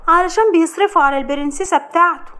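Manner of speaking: mother-in-law's ear, whispered poison; sly gossip. Acted. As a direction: stir trouble with sly glee. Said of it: "بتقول لها بخبث".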